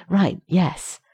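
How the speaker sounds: quickly. A narrator's reading. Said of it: "so John said quickly".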